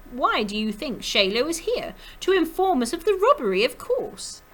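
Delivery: put-on brisker, high French-accented question and answer; loud French accent climbing very high; musical French accent. A narrator's reading. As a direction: lilt it confidently in a French accent. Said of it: "always sang in her musical French accent".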